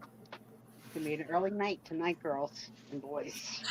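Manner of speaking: drowsy, fading; yawning. Real, not acted. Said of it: "I can't stop yawning".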